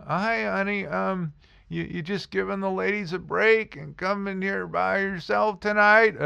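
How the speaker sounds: high, sugary put-on flirt voice; exaggerated stripper voice. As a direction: ham up a syrupy stripper sweet-talking a customer. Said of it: "I'm exaggerating it like crazy".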